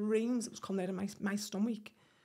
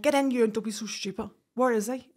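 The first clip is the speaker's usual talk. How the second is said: louder, brisk no-nonsense mother; loud brusque mum; 6 dB louder than usual. Retold or imitated. His mum at the door refusing to believe, loud and brisk. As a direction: bark it like a mum who won't hear bad news.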